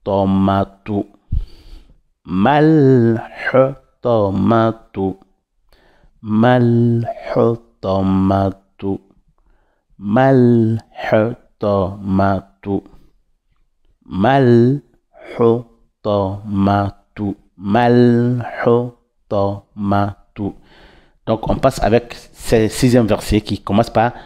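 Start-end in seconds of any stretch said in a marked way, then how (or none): 2.2-12.8 Mal hutamatu with the h from the throat. Shown as a demonstration. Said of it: "toujours dans la gorge". 14.0-20.5 Malhu then tomatu, pausing between; split recitation demo. Shown as a demonstration. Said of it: "toujours dans la gorge".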